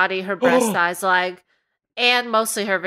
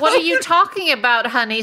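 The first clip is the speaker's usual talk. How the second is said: Roberta's reply; 3 semitones higher, 3 dB louder, faster than usual. Retold or imitated. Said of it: "said Roberta".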